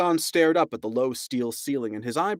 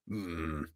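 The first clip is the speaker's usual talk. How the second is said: quiet musing hum; 7 semitones lower, 12 dB quieter than usual. A narrator's reading. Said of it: "he said".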